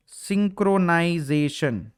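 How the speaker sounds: सिंक्रोनाइजेशन drawn out slowly, syllable by syllable; slow dictation. Shown as a demonstration. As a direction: say सिंक्रोनाइजेशन very slowly so students can write it down. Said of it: "note कर लेना अपने पास".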